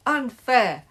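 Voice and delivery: high, loud wail of protest; howled. A narrator's reading. Losing team protesting the goal, loud howl. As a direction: howl the objection. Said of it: "howled Margaret's team".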